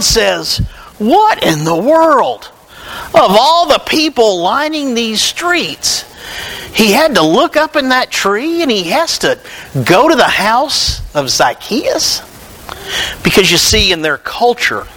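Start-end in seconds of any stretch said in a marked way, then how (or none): 1.0-12.2 grumbling crowd. Acted. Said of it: "The crowd starts grumbling".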